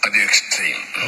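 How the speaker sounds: breathy half-whisper under the debate; whispered aside. Real, not acted. Panelist whispering to the host in a studio debate, hushed.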